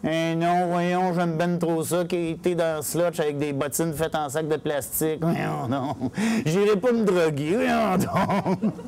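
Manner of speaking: drawn-out mock denial; beggar protesting. Beggar answering the suspicion of drug use, mock protest. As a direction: protest with stretched, sing-song vowels.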